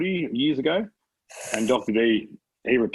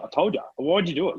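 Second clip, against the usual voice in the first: higher, mock-scolding kid voice; scolding little girl; 6 semitones higher than usual. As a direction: play the bossy daughter telling you off. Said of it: "she's like this, with her hand".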